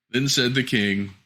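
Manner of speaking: usual speaking voice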